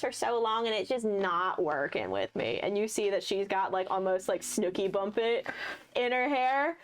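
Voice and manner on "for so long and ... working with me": chatty Hayden. Acted. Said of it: "She goes".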